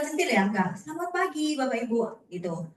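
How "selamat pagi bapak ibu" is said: smiling voice. Shown as a demonstration. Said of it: "Bukan, bukan kecentilan".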